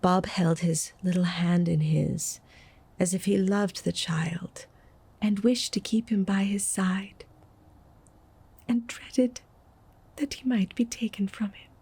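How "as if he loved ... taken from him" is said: whispered, fearful telling; hushed narration. A narrator's reading. Narrator hushing over Bob's fear, whispered. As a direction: breathe it like a dread secret.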